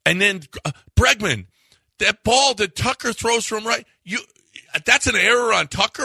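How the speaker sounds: fired-up sports-talk fan protesting a bad call; indignant outburst. Real, not acted. Incredulous rant at error call.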